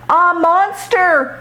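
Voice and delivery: high, drawn-out scared cry; dog startled by a frog; frightened yell. Acted. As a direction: shriek at something in the water. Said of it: "yelled Ick".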